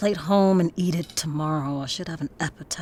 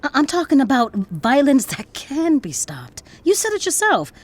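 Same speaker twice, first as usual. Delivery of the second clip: insistent, raised voice pleading her case; heated confrontation; 5 semitones higher, 5 dB louder than usual. Acted. Daughter confronts father about violence, heated. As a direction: challenge him, louder and higher as it builds.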